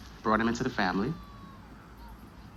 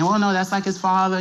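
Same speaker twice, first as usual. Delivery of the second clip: higher-pitched imitation with a light Spanish accent; slight Spanish accent; 6 semitones higher than usual. Grandmother brushing off uncle's questions, slight Spanish accent. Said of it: "in a little Spanish accent".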